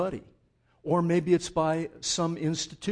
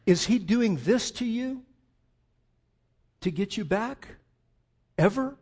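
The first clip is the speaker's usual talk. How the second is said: higher and louder, pressing the question; pointed challenge; 6 semitones higher, 4 dB louder than usual. Shown as a demonstration. Preacher contrasting a pushing God, loud and high. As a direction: push it like an accusation. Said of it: "holding his arms out wide".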